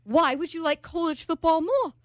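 put-on British accent. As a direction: imitate a baffled British man. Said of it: "Archie's doing with the accent".

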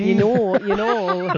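mock Fargo accent tag. Co-host joins in the movie talk, Fargo accent. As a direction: drop in a playful Fargo-style filler. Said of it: "you gotta talk in that accent".

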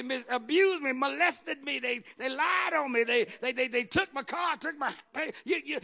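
stammering, indignant victim's complaint; mock self-pitying protest; aggrieved protest. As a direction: pile up grievances, tripping over the words. Acting out a hurt objector's complaint.

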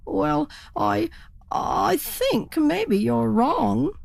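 high, slow, faltering doubt; hesitant turkey. Acted. Worried turkey hesitantly doubts the spruce hen, high and slow.

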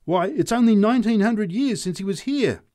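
put-on high, loud heckle from a drunk; drunken shout. A narrator's reading. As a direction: shout back at the preacher. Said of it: "shouted the drunk in answer".

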